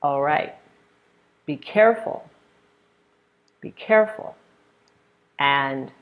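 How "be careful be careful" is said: high-pitched warning on "careful"; exclamation. Shown as a demonstration. Teacher modeling exclamations for practice, high warning "Be careful". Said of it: "exclamations use a falling tone".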